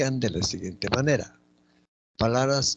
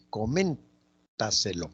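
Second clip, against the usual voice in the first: very slow "coméntaselo", broken after a strong MEN; teacher's drawn-out "coméntaselo", leaning on MEN; stress on MEN; much slower than usual. Shown as a demonstration. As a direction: stretch "coméntaselo" and lift MEN to show the stress.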